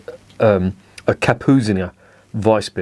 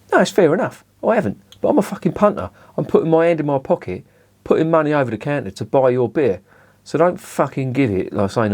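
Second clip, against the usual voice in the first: heated rant; 6 semitones higher than usual. Real, not acted. Beer reviewer ranting at brewers who dismiss him, heated and much higher. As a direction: pitch jumps much higher, indignant and worked up. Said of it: "it's just gonna turn into a rant".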